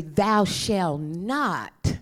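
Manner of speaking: very slow, weighty commandment; the old law, intoned slowly; slow solemn law. Acted. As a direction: intone it like stone tablets.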